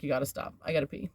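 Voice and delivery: understated weary request; tired repeat. Retold or imitated. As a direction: say it quietly, worn down. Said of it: "I'm like".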